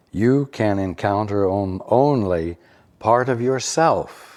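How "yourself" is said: heavy stress on "yourself". Rereading a line after correcting the emphasis: stress on yourself. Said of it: "Emphasize the word yourself".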